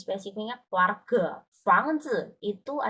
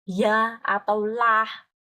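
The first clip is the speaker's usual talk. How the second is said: slow demo; 6 dB louder, much slower than usual. Shown as a demonstration. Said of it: "pa itu untuk menebak".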